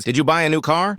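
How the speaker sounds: surprised. A narrator's reading. Max to Malika about her new car, surprised. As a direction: ask it in mild surprise. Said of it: "Max, surprised".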